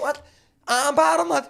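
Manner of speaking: loud, eager coaching call; egging him on from the side; coaching shout. Retold or imitated. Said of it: "we were trying to coach him".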